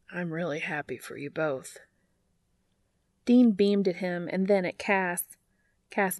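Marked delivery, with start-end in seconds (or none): 0.1-1.8 solemn, sincere. Acted. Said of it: "the most solemn look".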